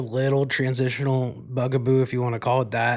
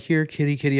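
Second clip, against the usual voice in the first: calling a cat; 5 semitones higher, 3 dB louder than usual. Retold or imitated. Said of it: "I heard somebody else going".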